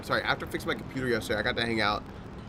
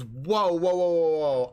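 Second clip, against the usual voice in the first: mock loud stopping whoas, pitched up; stopping her; 4 semitones higher, 3 dB louder, slower than usual. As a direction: hold her off with raised whoas. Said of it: "Crystal goes".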